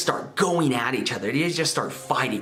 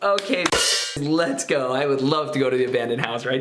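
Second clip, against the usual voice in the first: sarcastic agreement. Retold or imitated. Little brother to older sister, sarcastic mock-eager yes. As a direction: fake enthusiasm to avoid being left alone. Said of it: "And so I'm like".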